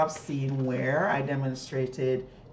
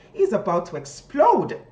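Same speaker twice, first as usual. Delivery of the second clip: louder on explode; excited, raised voice; raise your voice; 6 semitones higher, 9 dB louder than usual. Shown as a demonstration. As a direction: let it swell with excitement. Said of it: "you raise your voice here".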